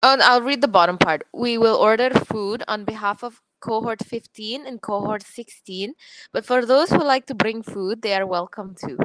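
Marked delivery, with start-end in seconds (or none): 1.3-9.0 lightly done Irish accent. Shown as a demonstration. Student reading a party text for friends, Irish accent. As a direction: read it with a hint of Irish. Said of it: "an Irish accent".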